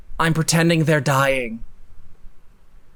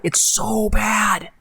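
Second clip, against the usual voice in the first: drawn-out, slow, dismayed groan of a line; disgusted drawl; 4 semitones higher, much slower than usual. Real, not acted. Podcast host judging a bad article, slow disgusted drawl. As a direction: drag it out in disbelief. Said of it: "because it's so bad".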